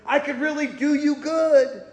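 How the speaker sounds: mock boastful prayer. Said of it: "He doesn't cry out to Jesus, say".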